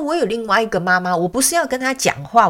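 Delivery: high-pitched pet protest; lightly voiced dog putting someone straight; insistent little dog. Dog insisting on another mother.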